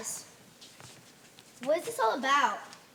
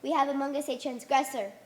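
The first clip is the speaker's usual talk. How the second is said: solemn prayer. Acted. Prayer to holy cabinet.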